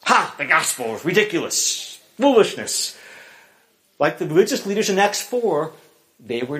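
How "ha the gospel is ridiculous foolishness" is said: mocking scoff. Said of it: "scoff at him and jeer and mock".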